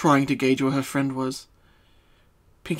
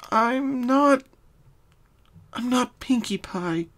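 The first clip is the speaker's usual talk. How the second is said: slow, breathy whisper, raised pitch; quiet whisper; 11 semitones higher, slower than usual. Acted. Pinkie revealing her true identity to Twilight, whispered. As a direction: confess it under your breath. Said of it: "she said quietly".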